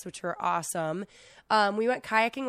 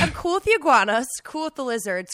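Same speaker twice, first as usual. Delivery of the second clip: emphatic; 4 semitones higher, 5 dB louder than usual. Retold or imitated. Retelling her objection to crocodiles.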